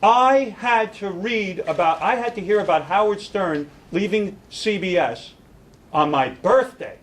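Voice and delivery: slow, whining imitation of the boss; mock a petulant executive, drawing it out; hammed-up complaint about his birthday, slow; whiny boss. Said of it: "he goes".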